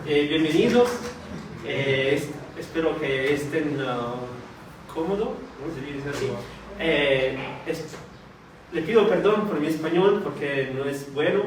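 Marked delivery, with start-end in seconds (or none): none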